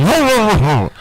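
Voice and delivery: high-pitched mock dog barks; comic imitation of a German Shepherd barking; barking dog impression. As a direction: bark it out like a dog, high and falling. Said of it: "he was talking to his master and shit".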